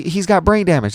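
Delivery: high, loud quoted cry; re-enacted upset exclamation; imitating distraught mom. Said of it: "That's what she said".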